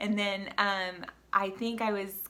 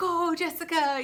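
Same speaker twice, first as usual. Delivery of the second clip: put-on very high cheer in a German accent; 9 semitones higher, 6 dB louder than usual. Retelling a man with a cowbell cheering her on at the marathon, in a german accent. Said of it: "in his German accent".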